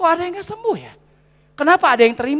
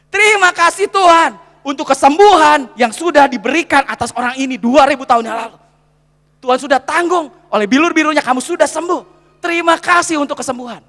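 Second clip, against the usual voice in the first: loud, declarative thanksgiving prayer; confident public healing prayer; demonstrated prayer; 5 dB louder than usual. Shown as a demonstration. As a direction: pray it out firmly over a sick person. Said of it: "saya doa begini".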